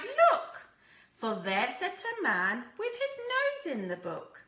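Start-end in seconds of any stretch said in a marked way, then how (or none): 0.0-0.7 high, loud excited shout; cried out. Acted. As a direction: shout it out as you spot the thief. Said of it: "Peter cried".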